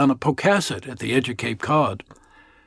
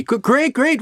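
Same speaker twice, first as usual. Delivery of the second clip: nervous stutter; 9 semitones higher than usual. Acted. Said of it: "or I stutter".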